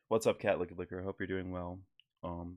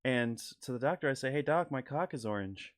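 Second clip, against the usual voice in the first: Norm Macdonald impression; 2 semitones higher than usual. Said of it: "this is my rendition of the Norm Macdonald joke".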